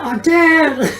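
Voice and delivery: high-pitched mock whine through laughter; whining kid. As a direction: protest like a kid given a chore. Kid protests dad's checkbook chore.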